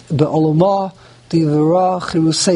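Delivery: Be'olomah, Divara, Chirusei, each stressed on the final syllable; final-syllable weight on Be'olomah, Divara and Chirusei; stress on last syllables. Shown as a demonstration. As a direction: land on the ends: be'oloMAH, diva-RA, chiru-SEI. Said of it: "the emphasis is always Milara".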